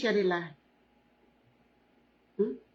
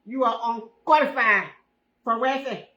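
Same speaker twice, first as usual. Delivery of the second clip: louder mock welfare clerk; mock official, louder; 4 dB louder than usual. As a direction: imitate the clerk turning you down, loud. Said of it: "They say today".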